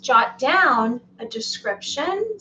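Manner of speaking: "jot down" said slowly and deliberately; slow "jot down" to correct rushed speech. Real, not acted. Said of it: "I'm speaking too fast".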